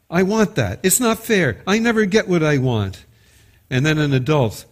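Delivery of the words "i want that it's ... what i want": put-on high, whining child's voice; a kid complaining it's not fair; whiny kid. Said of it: "A kid saying".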